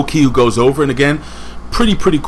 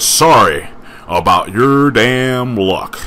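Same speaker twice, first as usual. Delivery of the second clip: cowboy drawl; much slower than usual. Retold or imitated. Quoting Cowboy James Storm catchphrase.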